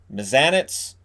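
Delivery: "Mazanec" ending in a "ts" sound; alternative pronunciation. Shown as a demonstration. Host trying out a goalie's name, alternative pronunciation. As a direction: say "Mazanec" as muh-ZAN-ets, rising. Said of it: "different ways to pronounce it".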